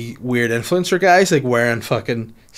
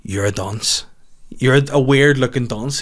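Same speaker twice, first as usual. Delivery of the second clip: deadpan put-down; 3 semitones lower than usual. Retold or imitated. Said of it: "you're like".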